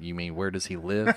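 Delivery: high, puzzled correction; incredulous friend. Retold or imitated. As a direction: ask it like he's baffled. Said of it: "he just looked at me like".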